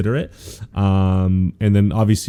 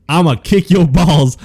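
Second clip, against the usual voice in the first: cocky Denji quote; 5 semitones higher, 3 dB louder, slower than usual. Retold or imitated. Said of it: "My boy Deji said".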